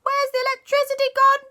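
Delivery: high, bewildered cry; alarmed surprise. Acted. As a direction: panic in the dark. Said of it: "everyone went".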